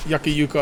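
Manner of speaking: Yucca as YUCK-uh, then Yucca as YOO-kuh; both pronunciations. Shown as a demonstration. Player joking about the plant's name, Yucca as YUCK-uh then YOO-kuh. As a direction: run both versions of Yucca together. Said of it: "I'm gonna stop doing that".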